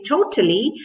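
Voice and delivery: "totally" stressed, lifting at the end; emphatic "totally" with an upward tail; rising "totally". Shown as a demonstration. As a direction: let the voice rise at the end of "totally". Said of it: "I rise my voice at the end".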